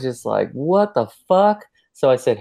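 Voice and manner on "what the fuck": high, slow incredulous what-the; mock shocked inner voice; stunned disbelief. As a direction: draw it out, much higher, baffled.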